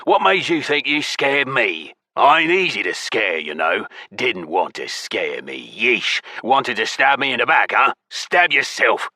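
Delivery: indignant, touchy goblin voice; belligerent goblin. A narrator's reading. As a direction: grumble and jab back as an offended goblin.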